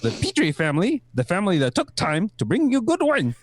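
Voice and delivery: put-on Kiwi accent.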